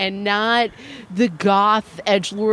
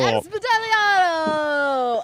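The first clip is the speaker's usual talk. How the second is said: amused; 4 semitones higher, slower than usual. Real, not acted. Savoring the joke name.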